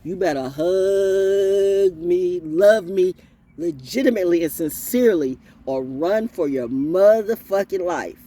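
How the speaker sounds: loud, slow, drawn-out warning. Real, not acted. Warning anyone near him in a fight, loud and slow. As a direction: lean in and warn them to back off. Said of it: "in the heat of a battle".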